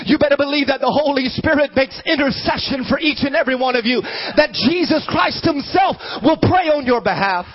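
driving, insistent sermon delivery; fervent preaching. Real, not acted. Preacher assuring people that Jesus prays for them, fervent preaching. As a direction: press it home like a preacher.

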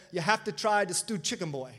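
imitating a Caribbean accent. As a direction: quote a local in a Caribbean accent. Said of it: "in a thick Caribbean accent".

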